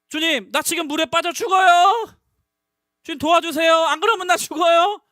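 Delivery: loud, high desperate pleading; shouted prayer. Acted. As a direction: cry for help like someone drowning. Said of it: "라고 소리를 지는 거라니까". (물에 빠진 듯 다급하게 부르짖는 기도)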